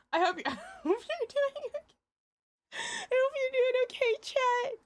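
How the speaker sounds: high cute streamer voice; sweet high greeting to chat; cute anime streamer. Acted.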